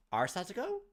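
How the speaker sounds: sudden loud, high outburst of disbelief; shocked cry of a friend's name; too loud. Acted. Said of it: "my voice was too loud".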